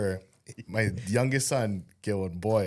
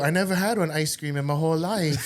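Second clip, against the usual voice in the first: higher, mock-innocent kid voice; kid playing stupid; 4 semitones higher than usual. Neighbor kid angling for ice cream, mock-innocent and higher. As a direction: plead ignorance like a kid, half laughing. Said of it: "the kid is playing stupid".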